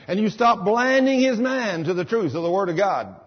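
rising into a loud, bold command at the devil; commanding rebuke. Acted. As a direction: serve notice on Satan, full force. Commanding Satan in prayer.

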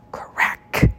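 sharp whispery sound effect; voiceless story sound effect; cracking noise. A narrator's reading. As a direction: make the word snap like a branch. Branch snapping in story.

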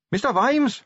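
high, urgent hail; pitched high to carry; calling out. A narrator's reading. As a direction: call to someone far down the road. Carrot hails Vimes from a coach.

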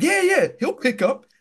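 high-pitched mimicry of a friend; mimicking a friend. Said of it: "And he's like".

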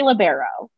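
"libero" said luh-BEAR-o; three-syllable alternative. Shown as a demonstration. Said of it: "the purpose of saying three syllables".

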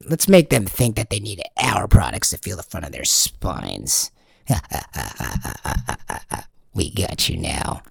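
low, conspiratorial plotting voice; a hint of a sneering corporate villain; scheming villains. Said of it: "and they're like".

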